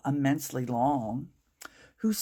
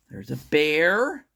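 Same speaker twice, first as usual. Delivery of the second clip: surprised; 5 dB louder than usual. Pretend. Reader points at the picture.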